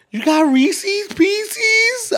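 very high, very slow drawn-out squeal; mocking annoying people. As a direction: stretch every word in a whiny mock voice. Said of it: "I fucking hate that shit".

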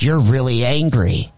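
lightly imitated possessed girl; switched devilish voice. Biting girl to the man who hit her, lightly devilish. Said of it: "when her voice switched over".

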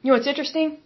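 talking through the hiccups. Real, not acted. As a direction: speak between small hiccups. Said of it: "I have the hiccups a little bit".

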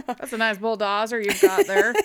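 loud, laughing redneck voice; hick voice. Pretend. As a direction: grin it out like a yokel.

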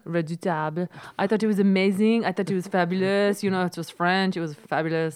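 light put-on French accent, savouring the words; a hint of a French film critic gushing; mock French accent. The speaker gushing about the film in a mild mock French accent. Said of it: "I love doing that accent".

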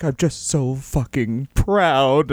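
slow, drawn-out choked-up impression; milk the pride, as if tearing up; mock tearful pride. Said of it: "he starts, like, crying".

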